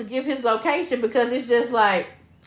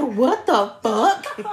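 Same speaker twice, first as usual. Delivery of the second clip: drawn out, slow what the fuck; slowly stunned at what she hears; slow stunned disbelief; much slower than usual. Retold or imitated. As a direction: stretch it out in shock. Friend's stunned text retold.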